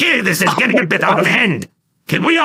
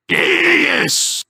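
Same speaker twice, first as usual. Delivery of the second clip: a high, thrilled cheer; excited yes; 8 semitones higher than usual. Acted. Fan cheering on hearing a fellow Republic fan, excited. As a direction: leap at the shared love. Excited agreement about favorite faction.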